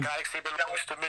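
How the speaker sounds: high put-on villain voice; cold rasping evil emperor. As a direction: croak it like an old tyrant. Friend imitating the line.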